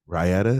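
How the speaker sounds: "Raita" in three syllables, rye-AT-uh, rising; questioning pronunciation. Shown as a demonstration. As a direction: try "Raita" as rye-AT-uh, asking. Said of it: "Is that how you say it".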